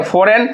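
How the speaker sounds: फॉरेन said with no G sound; फॉरेन, the G dropped completely; silent G. Shown as a demonstration. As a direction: demonstrate फॉरेन as "fo-ren", G left silent. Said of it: "हम लोग क्या पढ़ते हैं इसको".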